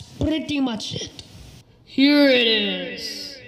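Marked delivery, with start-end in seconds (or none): 1.8-3.4 slow, louder deep-voiced delivery; a gruff deepened growl. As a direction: drop into a deep pirate voice, slowly. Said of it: "my voice gets a little deep when I do that".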